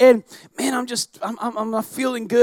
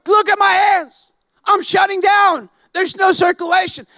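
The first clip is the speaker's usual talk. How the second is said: panicked pleading; 5 semitones higher than usual. Retold or imitated. Pleading with the nurses, high and panicked. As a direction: beg for help as if dying.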